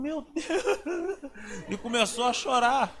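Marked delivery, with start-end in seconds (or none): 0.0-1.7 breathy, laughing joy; delighted gasp. Retold or imitated. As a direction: gasp with happy disbelief. Wife's joy at apartment. (alegria ofegante, rindo)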